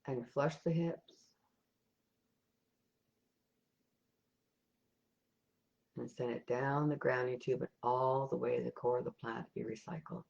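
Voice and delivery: calm, even meditation guide with long pauses; guided meditation. Real, not acted. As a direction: lead them gently step by step, leaving silences between instructions.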